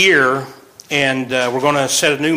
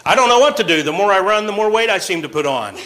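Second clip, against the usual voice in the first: poor snowman; 5 semitones higher than usual. Retold or imitated. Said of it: "this poor snowman".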